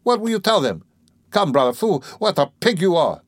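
high, flustered reproach; agitated, pleading then scolding; alarmed protest. Acted. Razumihin fearing what his friend will tell, alarmed.

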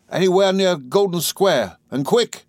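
high, pressing and breathless; a desperate, hurried order; urgent. A narrator's reading. Martha urgently orders the coachman.

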